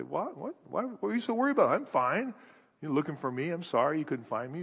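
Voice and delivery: put-on quick, offhand teen shrug; a twelve-year-old brushing off his worried parents; flippant twelve-year-old. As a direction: toss it off like a careless kid. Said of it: "a twelve-year-old that'd say".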